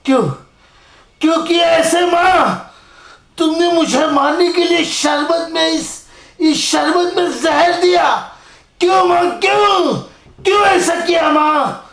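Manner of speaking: anguished accusation. Acted. Poisoned son accusing his mother, anguished. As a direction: demand why she poisoned him.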